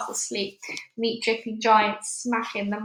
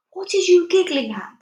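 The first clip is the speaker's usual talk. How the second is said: higher, louder miffed question; slightly nettled; 8 semitones higher, 8 dB louder than usual. A narrator's reading. BFG asking Sophie why she giggles, nettled. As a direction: demand it, a bit put out. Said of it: "slightly nettled".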